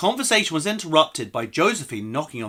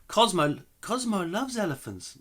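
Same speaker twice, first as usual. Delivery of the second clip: half French accent; 7 semitones higher than usual. Shown as a demonstration. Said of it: "No, I'm gonna go back".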